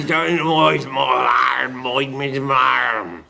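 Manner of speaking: slow rustic Sussex yokel; lightly done Sussex countryman; rustic Sussex accent. Retold or imitated. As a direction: drawl it like a Sussex farmhand. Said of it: "a very rustic voice".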